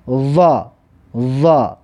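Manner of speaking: "ضا" as a heavy, lisped "za"; emphatic za. Shown as a demonstration. Teacher models Arabic za with fatha, "ضا" as heavy "dha". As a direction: say "ضا" as backed "dha", tongue at teeth.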